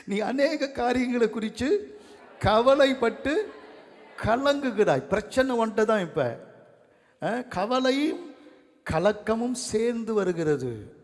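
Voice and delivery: slow, high, loud scripture declamation; preacher driving a verse home; forceful preaching. Real, not acted. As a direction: declaim it to the congregation, word by drawn-out word.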